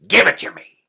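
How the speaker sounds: snatch at it like a greedy troll; troll queen hag. A narrator's reading. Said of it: "she said".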